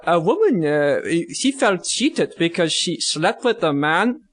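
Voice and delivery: put-on broken-English Russian accent, slipping in and out; loosely held jokey Russian accent; bad Russian accent. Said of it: "So, in Russian voice".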